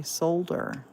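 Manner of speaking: "solder" said SOLE-der, the L clearly sounded. Shown as a demonstration. Glass artist explains her Scottish-learned word: "solder" with a sounded L. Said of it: "You pronounce that L".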